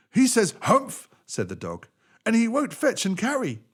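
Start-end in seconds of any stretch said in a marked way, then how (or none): 0.1-1.1 high, loud dog voice; indignant dog. Acted. 2.2-3.6 high, loud dog voice; indignant dog. Acted.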